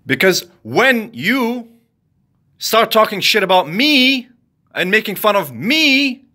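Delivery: heated telling off of gossiping strangers; angry rant. Real, not acted. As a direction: lay into them word by word. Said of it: "an angry rant".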